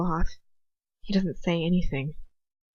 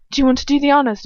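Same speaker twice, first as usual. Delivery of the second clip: character voice; 7 semitones higher, 7 dB louder, much faster than usual. A narrator's reading. Reader voicing Bellatrix to brother-in-law.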